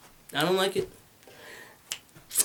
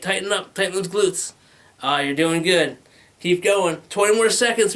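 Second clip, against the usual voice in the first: upbeat trainer voice, lightly raised; workout coach; 3 semitones higher than usual. Retold or imitated. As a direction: coax through the last reps. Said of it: "They encourage you".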